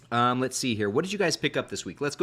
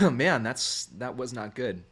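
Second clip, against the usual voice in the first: coughing; slower than usual. Real, not acted. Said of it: "Apparently not so good for your throat".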